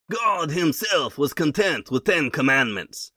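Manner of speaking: mock French accent, dry and scornful; Clemenceau French accent. Quoting Clemenceau mocking Wilson, heavy French accent. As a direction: sneer it like a French statesman, in a French accent. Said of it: "in an impeccable French accent".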